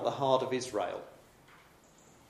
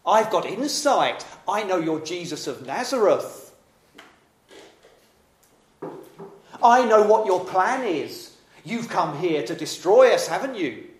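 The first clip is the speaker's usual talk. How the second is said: high, loud, sneering demon voice; mocking intimidating spirit; 6 semitones higher, 6 dB louder than usual. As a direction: taunt him, you know his secret. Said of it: "The spirit is trying to intimidate Jesus".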